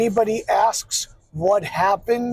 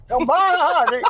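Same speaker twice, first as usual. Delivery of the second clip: goat bleat voice, higher; bleating like a ram; 7 semitones higher than usual. Shown as a demonstration. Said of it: "I have a keyword to get me into goat".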